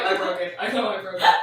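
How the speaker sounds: laughing through the words; laughing confession. Retold or imitated. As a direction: admit it while cracking up. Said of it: "and I was like".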